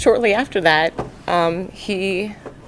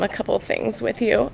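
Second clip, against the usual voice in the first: ordinary talk, nothing marked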